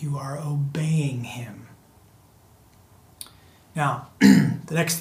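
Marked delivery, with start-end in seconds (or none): 0.0-1.7 hushed whisper. Real, not acted. Pastor whispers the point to the congregation, hushed. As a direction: drop to a whisper, slowly.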